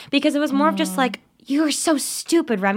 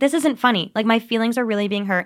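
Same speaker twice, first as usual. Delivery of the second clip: normal talking voice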